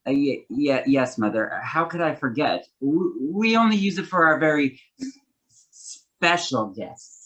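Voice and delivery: nervous stutter on first sounds. Acted. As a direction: stammer shyly. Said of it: "has a slight stutter".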